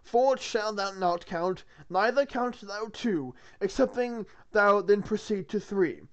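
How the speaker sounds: slow, solemn biblical recital; scripture reading. Acted. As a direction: intone it like a sermon.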